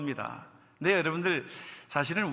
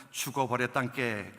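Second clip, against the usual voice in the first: slow, lightly drawn-out Jeolla dialect; mild Jeolla accent; 4 semitones lower, 4 dB quieter than usual. Retold or imitated. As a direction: lean into a soft Jeolla twang. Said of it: "전라도 분들은". (느릿한 전라도 사투리 흉내)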